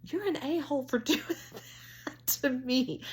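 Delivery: high, loud mock outrage through laughter; laughing scolding. Woman berating dog that scared her, laughing high outrage. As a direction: scold the dog while cracking up.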